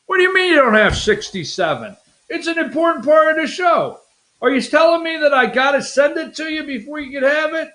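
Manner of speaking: mock-outraged, hurried questioning; joking indignation. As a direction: playfully scold an assistant in disbelief. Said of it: "I'm just joking".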